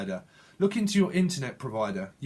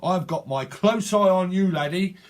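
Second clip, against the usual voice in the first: a lightly voiced, suspicious detective, louder at the end; mock detective keeping watch, half playful; plain clothes detective; 4 dB louder than usual. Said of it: "Like a plain clothes detective".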